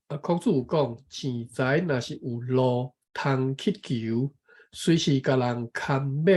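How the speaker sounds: measured, careful reading of a text; reading aloud. Real, not acted. Taking a turn to read the passage, careful reading aloud. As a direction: read it out phrase by phrase.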